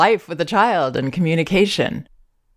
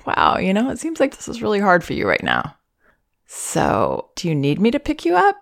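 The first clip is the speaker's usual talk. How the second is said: gentle question; 5 semitones higher than usual. Shown as a demonstration. Parent asking escalating crying baby, gentle and caring. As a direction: offer to pick her up, gently asking. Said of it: "Ask that as a question".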